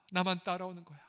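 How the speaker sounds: 나만 hit, falling end; stress on 나만. Shown as a demonstration. Jesus telling disciples, stress on 나만. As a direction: lean on 나만 in 나만 따라오는 거야. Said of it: "repeated, stress 나만".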